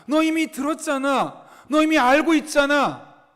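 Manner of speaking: acted reproach, building in force; emphatic retort. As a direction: press the point as if they should know. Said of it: "이미 알고 있다는 것을 반문하고".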